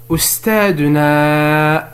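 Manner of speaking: أستاذنا with a long drawn-out نا; stress on نا. Shown as a demonstration. Teacher showing what notre means, stretching نا in أستاذنا. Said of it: "notre تلعب دور نا".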